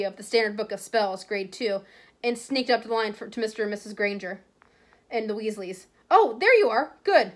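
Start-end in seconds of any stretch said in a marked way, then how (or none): 6.1-7.3 higher, louder motherly greeting; Mrs Weasley. Acted. Mother finds the children in the bookshop, a higher, louder greeting. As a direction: call out brightly on spotting them. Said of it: "said Missus Weasley".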